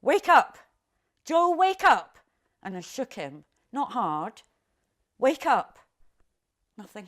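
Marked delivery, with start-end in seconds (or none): 0.0-2.2 frantic high scream of a name. Retold or imitated. Mother screaming at her still baby, desperate shout. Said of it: "and I screamed at him". 5.2-5.8 loud high desperate shout; screaming. Retold or imitated. Mother shouting at her baby again, panicked. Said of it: "and I screamed at him".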